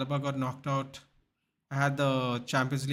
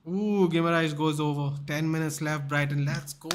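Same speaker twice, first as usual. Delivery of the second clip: excited match reaction; 5 dB louder than usual. Real, not acted.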